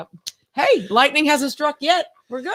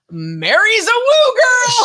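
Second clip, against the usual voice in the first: laughing read; 8 semitones higher, 6 dB louder than usual. Real, not acted. Reading comment, laughing.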